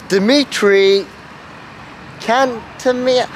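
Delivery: "Dmitry Kantemir" said slowly, syllable by syllable; slow careful name. Shown as a demonstration. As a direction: spell out "Kantemir" slowly and clearly. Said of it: "I'll write it down at the bottom".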